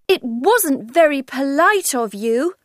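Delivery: put-on an offended little girl scolding; angrily. Alice scolding the Hatter, high and indignant. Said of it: "Alice said angrily".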